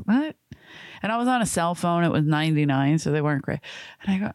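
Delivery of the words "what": mock surprise. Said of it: "I'm like".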